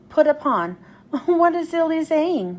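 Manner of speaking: chuckling at a silly phrase; amused laugh. Acted. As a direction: Thomas laughing at Percy's saying, amused. Thomas laughs at it.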